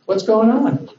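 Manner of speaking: high-pitched, casual friendly question; friendly calling out. Retold or imitated. God looking for Adam and Eve, friendly calling out. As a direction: check in on missing friends. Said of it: "He wants to be with them".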